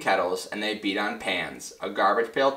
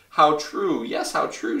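conceding exclamation; 6 semitones higher than usual. Acted. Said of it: "said the big kangaroo".

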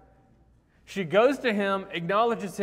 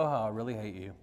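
smiling mock insult; 8 semitones lower, 5 dB quieter, faster than usual. Shown as a demonstration. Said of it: "smile and go".

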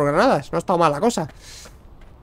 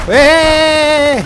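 high, loud shout; alarmed yell; 6 semitones higher, 6 dB louder than usual. Real, not acted. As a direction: yell out mid-fight. Yelling during close combat. (grito de alerta)

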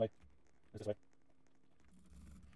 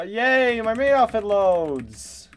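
excited cheer; 8 semitones higher, 5 dB louder, slower than usual. Real, not acted. Cheering at game loading.

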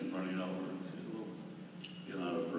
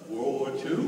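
put-on boy's question, higher and louder with a laugh; amazed boy; 7 semitones higher, 9 dB louder, slower than usual. Boy asks veteran about World War Two, amazed. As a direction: kid wide-eyed at the old man.

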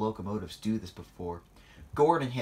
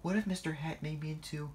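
worried rising cry; 7 semitones higher than usual. Acted. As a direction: cry out in worry. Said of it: "cried Percy".

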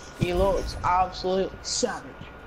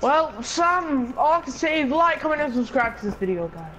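YouTuber outro; 5 semitones higher than usual. Pretend.

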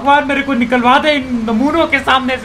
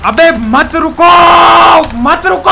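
angry shout; 3 semitones higher, 5 dB louder, slower than usual. Real, not acted. Yelling at stopping players.

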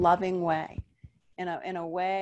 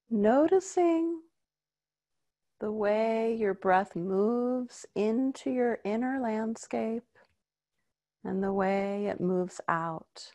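guided meditation. Acted.

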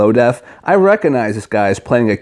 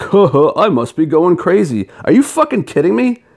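high, breathy chuckling disbelief; mock laughing disbelief; 7 semitones higher than usual. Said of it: "he's laughing about it, like".

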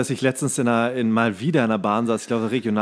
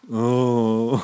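ordinary talk

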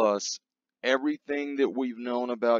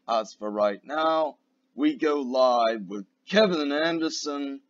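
show announcer; 2 semitones higher than usual. Acted. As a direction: introduce the rant like a live event host. Announces a live pipe bomb.

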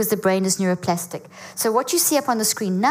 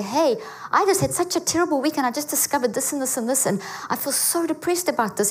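raised, open, confiding voice; sharing a hard week; 5 semitones higher than usual. Retold or imitated. Guest at a dinner party opens up about a hard week, raised and confiding. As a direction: pour out your week to friends. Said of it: "Go to the dinner party and say".

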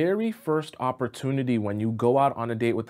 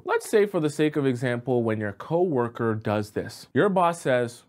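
ordinary talk, nothing marked

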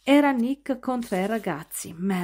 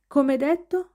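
growled retort; 7 semitones higher, 3 dB louder, slower than usual. A narrator's reading.

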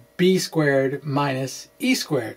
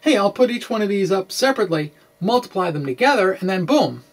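breezy quote; 4 semitones higher, faster than usual. Retold or imitated. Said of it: "you can say".

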